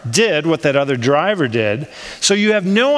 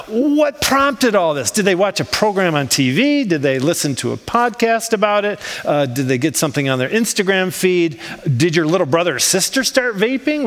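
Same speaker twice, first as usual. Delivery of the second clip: mildly baffled run of questions; puzzled wondering. Acted. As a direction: puzzle it out aloud, guess after guess. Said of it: "So you think to yourself".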